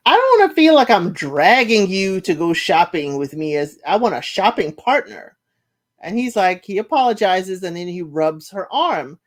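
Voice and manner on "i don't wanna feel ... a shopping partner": annoyed fiancée. Retold or imitated. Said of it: "she was like".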